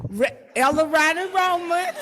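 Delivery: fumbling the name through a laugh. Real, not acted. Correcting herself before the congregation, laughing. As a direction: laugh it off, embarrassed.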